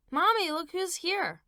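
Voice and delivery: high, loud gleeful shout; excited child. Acted. Boy bringing daddy to mother, gleeful shout. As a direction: burst in announcing.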